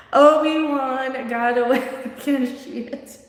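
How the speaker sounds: slow, drawn-out mock street accent; Cash Me Outside girl. Host imagining the actress's line in that girl's voice, slow mocking impression. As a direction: imitate the accent, breaking into laughter. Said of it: "she sounds like the Cash Me Outside girl".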